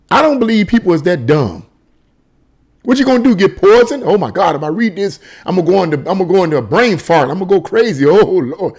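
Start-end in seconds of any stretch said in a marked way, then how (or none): 2.8-8.7 hammed-up fretting, pitch jumping about; mildly sarcastic fake dread; mock panic. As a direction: play a silly, overdramatic worrier. Mock panic at reading forbidden news.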